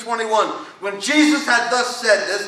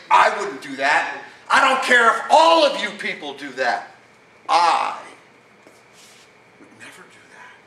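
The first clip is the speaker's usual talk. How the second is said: arrogant boast; 5 semitones lower than usual. Retold or imitated. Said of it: "Catch the arrogance of the man".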